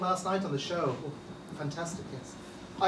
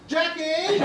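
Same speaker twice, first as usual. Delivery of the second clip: calling out; 7 semitones higher, 4 dB louder than usual. Acted. Calling to colleague offstage.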